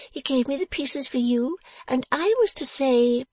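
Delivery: high, piping, gloating delivery, slowing for the message; spiteful satisfaction. A narrator's reading. Dressmaker delivering the attacker's compliments, spitefully satisfied. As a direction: relish every word of the message. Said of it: "said it with such spiteful satisfaction".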